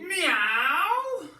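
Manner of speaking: loud, high cat meow; big cat meow. Acted. Teacher leading kids, a loud high cat meow. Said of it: "she meowed a big meow".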